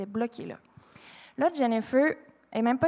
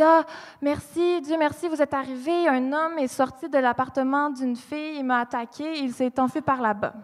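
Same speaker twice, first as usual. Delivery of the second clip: feigned relief; 3 semitones higher, 3 dB louder than usual. Retold or imitated. Attacker posing as victim to police.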